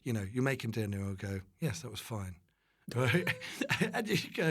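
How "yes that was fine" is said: understated dad's terse approval; monosyllabic dad. Retold or imitated. Son imitating dad after dinner, understated monosyllabic reply. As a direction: lightly voice a man of few words. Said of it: "sometimes he's monosyllabic".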